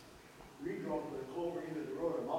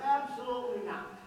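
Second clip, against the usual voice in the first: raised, emphatic no; loud firm refusal; 9 semitones higher, 6 dB louder than usual. Retold or imitated. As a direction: shut the idea down loudly. Farmer's adviser refusing a request.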